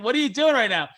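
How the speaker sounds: high, loud laughing whisper-shout of panic; a caught friend blurting through laughter; retold flustered friend. Patrick, put on the spot in front of her, laughing and high.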